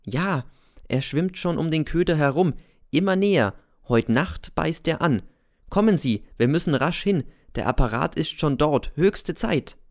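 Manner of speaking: hoch und eilig, geheimnisvoll drängend; gedrängte Erzählerfigur Cäsar. Acted. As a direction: ein unheimlicher Lehrer, der zur Eile treibt. Cäsar lockt den Lehrer mit. (Cäsar drängt den Kollegen, sofort mitzukommen, leicht gespielt und erhöht)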